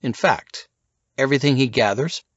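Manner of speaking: a hint of a cool spy; Jones confiding. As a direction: explain the secret book. Jones explains secrets.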